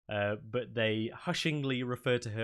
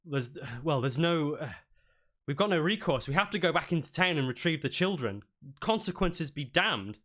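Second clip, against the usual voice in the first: a touch higher, firm resolve; determined halfling; 5 semitones higher than usual. Acted. Halfling acolyte urges returning for the children, a touch higher. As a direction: insist they go back.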